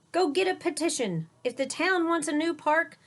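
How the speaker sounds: high and loud, eager; rally her on like a booming mayor; excited mayor. A narrator's reading. The mayor urges Sophia on, high and loud. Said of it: "cried the mayor".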